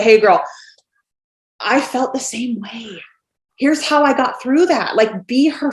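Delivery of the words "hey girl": louder, self-mocking repeat of the greeting; mock hey girl. Laughing at her own cliché, a louder mock greeting. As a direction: say it again, poking fun at yourself. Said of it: "Oh my God, I said the".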